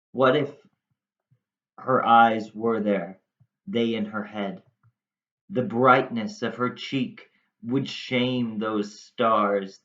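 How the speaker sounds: measured dramatic verse recitation; performed classical monologue with deliberate pauses; Shakespeare soliloquy reading. Acted. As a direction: read it aloud as Romeo, phrase by phrase. Resumes reading Romeo's soliloquy.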